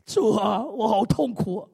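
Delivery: slow, tearful plea with a crack of crying; crying to the Lord. Retold or imitated. Pastor retelling his own prayer to the Lord, tearful and slow. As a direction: pour out the pain to God, slowing down.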